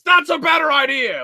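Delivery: high, excited villain voice; hammed-up villain enthusiasm; mock Zed. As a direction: pounce on the idea in a high cartoon voice. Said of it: "No, Zed, how about".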